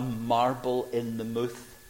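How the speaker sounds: "mouth" said Glaswegian-style as "mooth"; broad Glasgow "mouth", rhyming with tooth; Glasgow pronunciation. Shown as a demonstration. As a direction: say "mouth" with a long oo, slowly. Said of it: "Glasgow accent".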